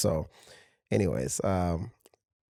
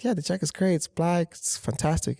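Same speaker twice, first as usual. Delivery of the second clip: much higher, louder fake-cheerful praise; forced excitement; 8 semitones higher, 3 dB louder than usual. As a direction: oversell it to hide the problem. Tailor faking enthusiasm to client.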